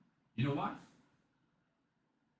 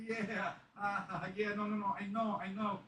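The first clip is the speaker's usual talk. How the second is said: acted-out consoling; 12 semitones higher than usual. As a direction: hush a crying partner, hammed up. Retold comforting of crying wife.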